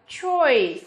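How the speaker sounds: "choice" drawn out with an "oi" glide; model pronunciation. Shown as a demonstration. Teacher shows the odd one out, modelling "choice" with "oi". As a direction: pronounce "choice" as a careful model word. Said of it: "D chúng phát âm là".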